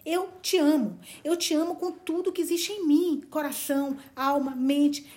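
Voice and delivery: a hint of a lover pouring his heart out; impassioned Barney. Barney declaring his love to Valancy, impassioned. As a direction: declare love, rising and pleading.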